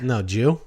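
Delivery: "No, Jew" as a clipped "no, did you?"; Jersey slurred pronunciation. Shown as a demonstration. Jersey native answering the jeet question, slurred reply. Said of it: "you answer that by saying".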